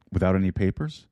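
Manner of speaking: put-on mild, amateur Russian accent; a loose attempt at a Russian accent; poor Russian accent. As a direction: play a film submariner with a slight Russian accent. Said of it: "Not a very good Russian accent".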